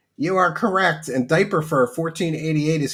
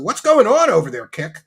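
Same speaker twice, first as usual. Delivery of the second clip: mock rant; 3 semitones higher, 6 dB louder than usual. Mock rant at Kick chat.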